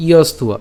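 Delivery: ইয়স্ত উয়া with an u-a glide for the v. Shown as a demonstration. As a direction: say ইয়স্ত, then উয়া with a clear u sound. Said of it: "উয়ের মতো হবে".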